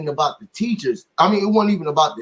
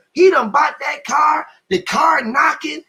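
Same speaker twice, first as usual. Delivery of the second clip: alarmed wife; 9 semitones higher, slower than usual. Retold or imitated. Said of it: "My wife calls".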